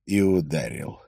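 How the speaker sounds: ordinary delivery, nothing marked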